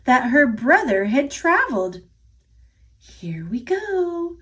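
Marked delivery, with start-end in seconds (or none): 3.0-4.4 soft breathy whisper, slower. A narrator's reading. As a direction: whisper it like a secret. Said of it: "whispered the gingerbread girl".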